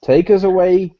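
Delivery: host hyping the guest, bigger second call. Acted. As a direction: call "Take us away" again with a push on "us". Host repeats the call louder.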